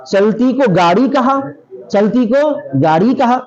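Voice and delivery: slow, measured verse recitation. Retold or imitated. Teacher quoting a verse that mocks Urdu to students, slow recitation. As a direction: recite the line slowly, word by word.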